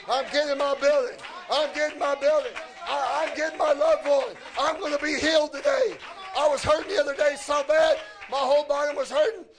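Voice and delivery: insistent, repeated declarations of faith; driving sermon cadence; fervent preaching. Real, not acted. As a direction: declare it boldly to the congregation. Preaches a claimed blessing.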